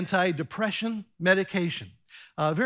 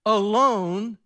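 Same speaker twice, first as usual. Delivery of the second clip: fearful lonely plea; 4 dB louder than usual. Acted. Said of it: "I hear fear and loneliness with Elijah saying".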